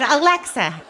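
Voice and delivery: exasperated. Retold or imitated. Tony fed up with Alexa, exasperated call. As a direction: snap the name in exasperation.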